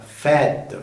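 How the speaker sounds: "Fête" with an open eh; French "Fête", open vowel and sounded T. Shown as a demonstration. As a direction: say "Fête" as feht. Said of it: "se pronuncia con una E abierta".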